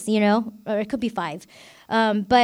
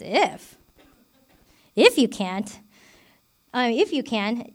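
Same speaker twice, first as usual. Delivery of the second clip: a light mock-incredulous if, repeated; sarcastic; slower than usual. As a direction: tease the father's doubt, mildly sarcastic. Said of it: "sarcastically like I did".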